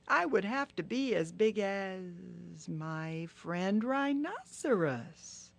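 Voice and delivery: lightly high, rueful turtle; Turtle thinking aloud. Acted. Turtle alone in the jungle, a hint of regret. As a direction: muse to yourself, a bit high.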